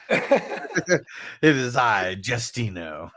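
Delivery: slow, drawn-out cave voice through laughter; a hint of the booming cave; Cave of Wonders voice. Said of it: "They used that same voice".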